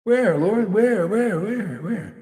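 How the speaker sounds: high, loud bewildered asking; mock confused disciple. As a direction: play the clueless disciple searching.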